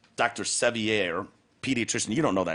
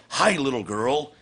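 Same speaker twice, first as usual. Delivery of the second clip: mock Jim Acosta; 4 semitones higher, 3 dB louder than usual. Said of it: "we need Jim Acosta going up".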